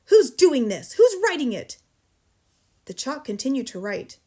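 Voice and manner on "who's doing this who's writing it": very loud, high demand; yelled. A narrator's reading. Headmistress yells at nobody in particular. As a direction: yell at the whole room. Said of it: "she yelled at nobody in particular".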